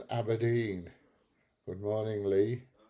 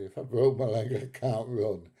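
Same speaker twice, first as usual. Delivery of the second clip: retold cheeky comeback; 6 dB louder than usual. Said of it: "And I would look at her and say".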